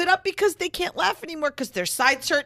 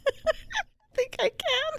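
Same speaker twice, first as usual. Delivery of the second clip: high squeaky helium voice; 13 semitones higher, 5 dB quieter, much slower than usual. Acted. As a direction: squeak it like you inhaled helium. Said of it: "I sound like I swallowed some helium".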